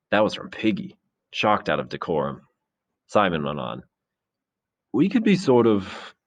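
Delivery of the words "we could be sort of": high, slow, unfinished thought; inarticulate groping. A narrator's reading. Simon trying to express mankind's illness, halting and inarticulate. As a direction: grope for words and stall. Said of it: "Simon became inarticulate".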